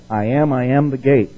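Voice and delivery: "I am" said twice, pressing the claim, landing on "gate"; emphatic I am. Shown as a demonstration. Preacher quoting Jesus to the class, emphatic I am. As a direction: stress I am, then drop onto gate. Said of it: "Once again, emphatic".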